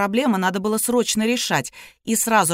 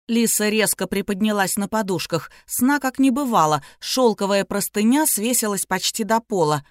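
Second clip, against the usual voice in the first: normal talking voice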